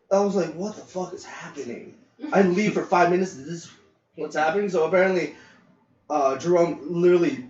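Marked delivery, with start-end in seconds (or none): 0.5-1.9 soft, breathless what-the; stunned under the breath; shocked disbelief. Retold or imitated. Shocked at the chaos.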